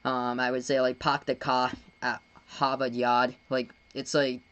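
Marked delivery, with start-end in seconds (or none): 1.0-3.3 slow Boston-accent demo; casual Boston accent sample. Shown as a demonstration. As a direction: drop the R's like a Bostonian, slowly. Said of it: "that's pretty much like the Boston accent".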